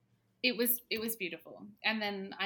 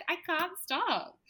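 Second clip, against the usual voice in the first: laughing helplessly; 10 semitones higher, 4 dB louder, slower than usual. Retold or imitated. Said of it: "could not stop laughing".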